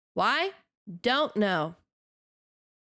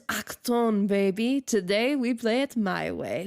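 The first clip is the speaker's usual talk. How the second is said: lightly German-tinged game character quote; imitated German accent. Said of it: "he spoke with a German accent".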